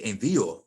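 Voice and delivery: envío as en-VEE-o, middle syllable stressed. Shown as a demonstration. Teacher giving the intended pronunciation, middle-syllable stress. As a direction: lean on the í of envío. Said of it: "they want the word to say".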